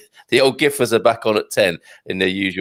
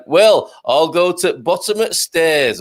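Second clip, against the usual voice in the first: Yorkshire phrase; 3 semitones higher, slower than usual. Shown as a demonstration. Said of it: "a Yorkshire phrase".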